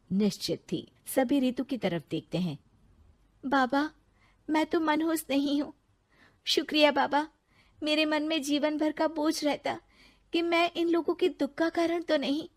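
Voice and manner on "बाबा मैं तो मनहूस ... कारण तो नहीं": higher, grateful and relieved; relieved young wife. Acted. Ritu thanking the sage, relieved. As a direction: thank him with a lightened heart.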